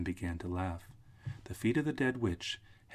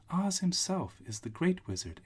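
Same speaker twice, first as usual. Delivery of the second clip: put-on little old witch; 10 semitones higher, 4 dB louder than usual. Witch figure, high voice.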